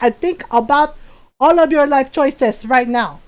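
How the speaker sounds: put-on accented Filipino mom telling off her son; imitating scolding mom. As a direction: mimic a mother's stern, deliberate threat. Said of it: "she do my voice very well".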